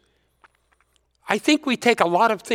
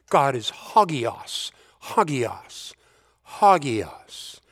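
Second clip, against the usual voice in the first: hagios repeated three times, lower and falling; triple hagios for emphasis; 4 semitones lower, slower than usual. Shown as a demonstration. Preacher repeating hagios thrice to stress God's holiness, lower. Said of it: "If you wanna place emphasis on something, you say it twice".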